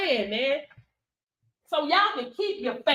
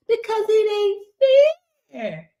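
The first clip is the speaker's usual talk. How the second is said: hammed-up tearful whine, pitched up then dropping; fake-cry it like a sore loser; mock sobbing complaint with a pause; mock whining; 6 semitones higher, 3 dB louder than usual. Acts out haters' complaint.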